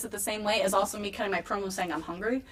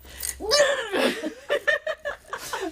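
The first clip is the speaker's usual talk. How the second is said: imitated outburst. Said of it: "you clearly see me go".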